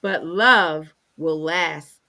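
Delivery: measured reading with deliberate pauses; careful Bible reading; scripture reading. Acted. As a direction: read the verse out phrase by phrase. Reads scripture aloud.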